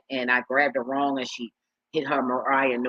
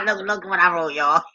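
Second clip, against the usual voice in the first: words broken by real laughter, rising loud; laughing while talking; 4 semitones higher, 4 dB louder than usual. Real, not acted. Laughing at her own typo.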